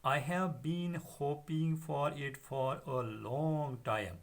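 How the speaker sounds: put-on slow, fond old father reading; acting Chubukov. Teacher reading the father's lines slowly to the class. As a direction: read the old man's lines slowly and fondly.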